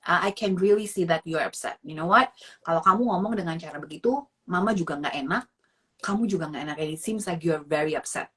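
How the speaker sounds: calm parent. Shown as a demonstration. Models calm reply to yelling child.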